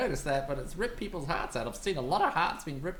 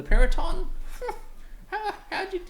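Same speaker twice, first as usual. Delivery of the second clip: high, chirpy excited bird; 14 semitones higher, 5 dB louder than usual. Acted. Old bird gushing to the heroes, high excited voice. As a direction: gush like an amazed old bird.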